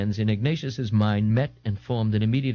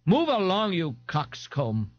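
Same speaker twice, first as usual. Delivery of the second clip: belched; 8 semitones higher, slower than usual. Acted. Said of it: "Ignatius belched".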